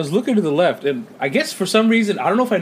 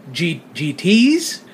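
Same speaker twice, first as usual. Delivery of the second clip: stunned double take; much slower than usual. Retold or imitated. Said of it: "And I say".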